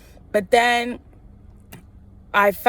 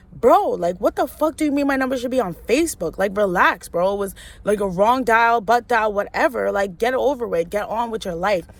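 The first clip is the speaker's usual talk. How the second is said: exasperated, fast-talking confrontation; irritated pushback; retold indignant telling-off. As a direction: retell yourself telling someone off, mildly worked up. Retold angry telling-off of the girl.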